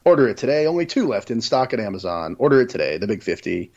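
lightly voiced TV pitchman; infomercial voice. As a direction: sell it like a late-night ad. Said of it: "That was a pretty good infomercial voice you just used there".

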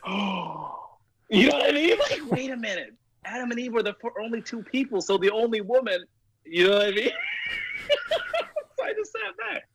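high, helpless laughter through every word; giggling through the realization; laughing while talking. Real, not acted. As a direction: try to talk while cracking up. Laughing while retelling punchline realization.

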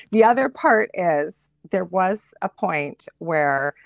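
ordinary delivery

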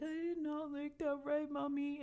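high-pitched imitation of a tearful little kid; mock whine of an upset child to Mommy; crying child. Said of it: "He's crying. And he was like".

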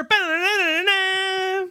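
high sung da-da-da fanfare; drawn-out newsreel flourish; spinning newspaper sting. Acted. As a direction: imitate an old movie headline jingle. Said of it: "the spinning newspaper".

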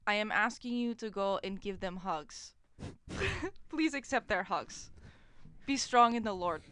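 put-on low-pitched Russian accent. Condemned Russian asking for hugs, Russian accent. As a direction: read it as a Russian guy. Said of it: "you do a good Russian".

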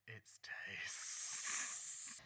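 whisper. Acted. Dramatic whispered announcement of contestant.

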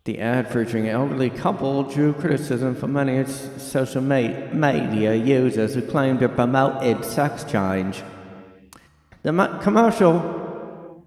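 wobbly put-on British news accent; mock British anchor struggling through the article; British newsreader. Host reads ad controversy aloud, attempted British newsreader accent. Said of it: "I'm having trouble with the accent".

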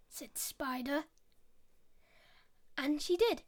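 put-on lively storyteller voice for kids; story narration. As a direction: read it like a bedtime fable. Storytelling a fable.

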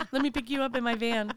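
hammed-up predatory sweet talk; mock creepy stranger. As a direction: play a fake-flattering van creep. Plays imagined creepy note writer.

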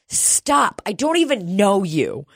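high, curt little brush-off; snippy kid. Retold or imitated. Retelling the six-year-old rebuffing the speaker, high snippy kid voice. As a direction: snap it like an offended child.

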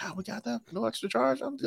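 high, soft and pleasantly surprised; a hushed, high-pitched little gasp of delight at a free bonus; mock delighted surprise. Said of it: "I was like".

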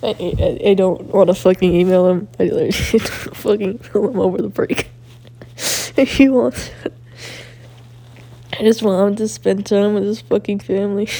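loud laughing rant. Real, not acted. Laughing rant about emailing teacher.

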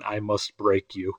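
put-on slow, low Russian boxer accent; menacing Russian villain accent, drawn out. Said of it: "that's my greatest, uh, Russian accent there".

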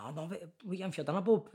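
quick, high, giggling through the quote; can barely get the words out for laughing; real laughter breaking into a retold line. Real, not acted. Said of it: "I just couldn't stop laughing".

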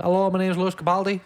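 Impression of a singer.

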